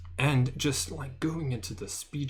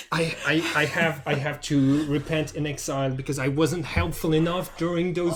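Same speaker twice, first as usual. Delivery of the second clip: knightly lament; 4 semitones higher, 4 dB louder than usual. Retold or imitated. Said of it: "And you were like".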